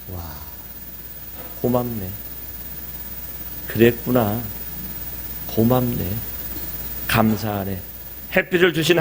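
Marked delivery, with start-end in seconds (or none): 0.1-7.8 grateful murmur. Pretend. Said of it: "왜 저래가 아니라".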